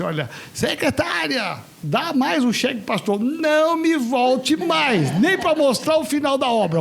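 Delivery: hammed-up grumpy doctor dismissing him; imitating an angry boss. Doctor ordering a cheque and banning the pastor, mock angry. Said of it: "Aí ele ficou muito bravo".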